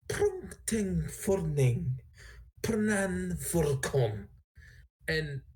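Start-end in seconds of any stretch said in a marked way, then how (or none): 0.1-4.3 slow, measured dragon-tongue incantation; lightly voiced woman speaking Draconic; female-esque Draconic. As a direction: draw out each foreign word, lightly feminine. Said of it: "in a female-esque voice".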